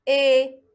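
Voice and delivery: إي held level and loud as "é"; wrong I, as é. Shown as a demonstration. Teacher showing what not to say, level loud إي as é. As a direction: hold إي as é, the sound to avoid. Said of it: "ما نقولش".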